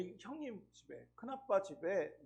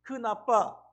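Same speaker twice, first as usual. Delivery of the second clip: put-on coaching a toddler; 4 dB louder, much slower than usual. Shown as a demonstration. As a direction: sound it out for a small child. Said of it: "교육을 시켰어요".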